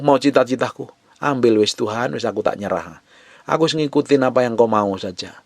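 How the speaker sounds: acted surrender prayer. Preacher voices a surrendering prayer.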